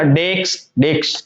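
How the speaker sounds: "डेक्स" held with a clear k-s ending; careful model of "डेक्स" ending in k-s; correct k-s sound. Shown as a demonstration. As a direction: say "डेक्स" as d-e-k-s, stretched slightly. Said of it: "के एस आ रहा है".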